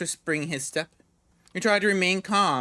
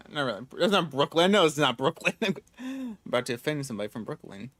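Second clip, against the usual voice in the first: normal talking voice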